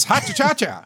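put-on high old-time showbiz flourish; vaudeville showman. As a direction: ham it up like a vaudeville hoofer. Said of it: "'Cause it's show business".

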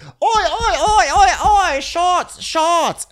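put-on shrieking high drunk chant, laughing; drunken party girl. Friend at a party yelling for shots, high and loud. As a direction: belt it like a tipsy girl rallying shots. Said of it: "she's like".

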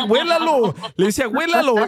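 retold plea. Child tells parent to smell it, retold high-pitched plea. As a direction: lift the voice to quote the plea.

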